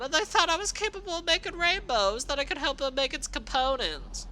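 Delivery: loud, high, seething screamed rant; furious screaming. Acted. Rainbow Dash screaming back at her former little sister, seething hatred. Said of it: "as she screamed in return".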